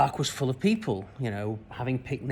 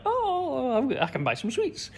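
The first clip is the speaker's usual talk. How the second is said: a hint of an excited little boy; lightly voiced kid thrilled by his coins; delighted child; 12 semitones higher, slower than usual. Boy pleased with fifty pence for sweets, lightly voiced child delight.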